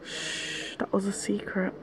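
real whisper, very soft; hushed whisper. Real, not acted. Vlogger hushing a friend over a secret, whispered. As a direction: shush them and whisper it.

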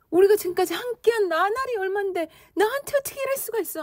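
high-pitched, frantic indignant protest; acted outrage. Teacher voicing a woman betrayed in a long relationship, furious. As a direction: reproach a betrayer in a worked-up high voice. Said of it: "영우자가 굉장히 광분해서 이야기하는 거".

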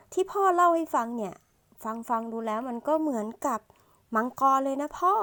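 hint of a child telling his father; lightly voiced son. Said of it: "ลูกชายก็พูดอย่างนั้นไป".

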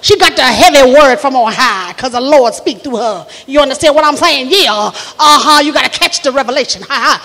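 Southern church lady prophesying; stretched vowels, emphatic swoops; Carlethia Sweetwater. Acted. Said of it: "That's what she do".

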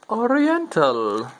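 high, very slow, hammed-up put-on Asian accent; mock Asian accent announcing the ramen flavor. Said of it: "That was my Oriental vo-, voice, my Asian voice".

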